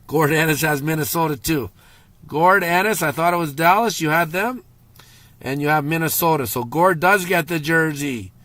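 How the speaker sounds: excited announcing. Real, not acted. Announcing lucky winner on stream.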